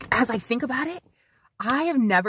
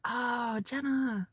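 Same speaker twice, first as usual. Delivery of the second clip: imitated neighbor's voice; 4 semitones higher, 7 dB quieter, much slower than usual. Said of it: "I knew from his voice".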